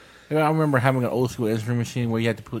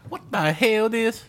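high, slow mock Asian accent; hammed-up Asian accent impression; 12 semitones higher, much slower than usual. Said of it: "a hardcore Asian accent".

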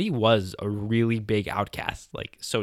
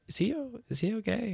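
high, hushed whisper; mock whisper; 13 semitones higher, 4 dB quieter than usual. Classmates whisper about the crying boy, hushed. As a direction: whisper it like nervous kids.

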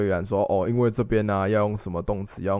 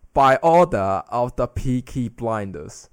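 put-on 1 Peaky Blinders British accent; 5 dB louder, much slower than usual. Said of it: "就像之前很有名的嘛".

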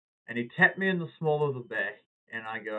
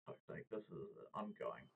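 fed-up mutter; 5 semitones lower, 20 dB quieter than usual. Retold or imitated. Fed-up aside, much softer.

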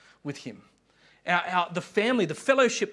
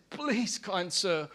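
pleading starving worm; 3 semitones higher, 3 dB quieter than usual. Acted. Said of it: "calls out to the worm".

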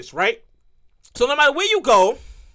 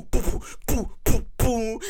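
beat noises; 3 semitones lower, 4 dB quieter, slower than usual. Pretend. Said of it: "cue my music".

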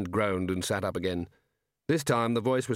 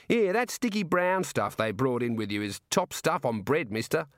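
lightly voiced Australian jailer, a little higher; chatty Aussie warder; warder with Australian accent; 4 semitones higher than usual. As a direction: play an easygoing Australian prison guard.

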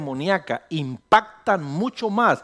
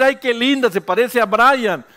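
higher, louder cooing delight; gushing relative; 5 semitones higher, 5 dB louder than usual. Acted. Pastor mimicking people gushing that the baby looks like Brian. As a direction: coo it like a proud grandparent.

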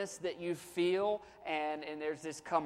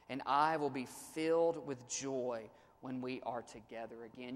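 scripture reading. Acted. Pastor reading Paul's letter to his church, lifted reading voice. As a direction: read the verses out to the congregation. Preacher reads scripture aloud.

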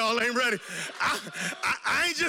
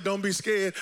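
voice of God; 5 semitones lower than usual. Retold or imitated. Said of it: "When God said".

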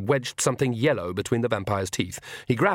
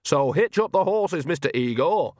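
high, projected order; mildly raised, commanding voice; 6 semitones higher than usual. A narrator's reading. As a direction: call out the order, pitched well up. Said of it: "she added loudly".

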